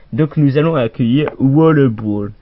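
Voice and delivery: Roller said as "Waller Brawl" in a mock vague foreign accent; a hammed-up accent from no real country; caricatural foreign accent. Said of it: "je fais un accent caricatural".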